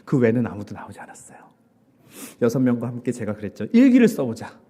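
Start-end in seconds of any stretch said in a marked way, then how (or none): 3.7-4.6 rallying call. Retold or imitated. Urging the six young people.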